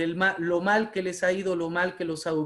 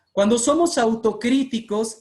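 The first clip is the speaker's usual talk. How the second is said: "Cuando somos autocríticos" pushed higher and louder; strong emphasis; 4 semitones higher, 5 dB louder than usual. Real, not acted. Speaker underlines self-criticism to young orators, "Cuando somos autocríticos" strongly emphasized. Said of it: "quiero hacer un énfasis muy grande".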